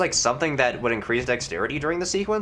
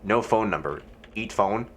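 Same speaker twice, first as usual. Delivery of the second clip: ordinary talk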